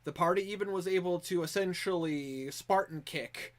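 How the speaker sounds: measured storytelling narration of past events; game master's recap. Acted. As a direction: recount the party's adventure like a chronicler. Game master recaps last session.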